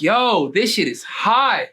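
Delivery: savoring the praise slowly; retold admiration. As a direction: imitate an impressed rapper, stretching the words. Rapper admiring his jacket.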